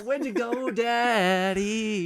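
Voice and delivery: put-on high kid voice pleading; child voice. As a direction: cry out like a small child. Echoing child voice.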